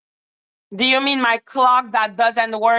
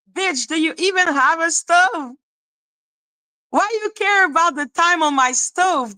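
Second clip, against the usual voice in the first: raised, sharp scolding of a hater; exasperated rant; 6 semitones higher than usual. Real, not acted. Scolding a chat hater over the stove, heated and high. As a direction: tear into them, high and heated.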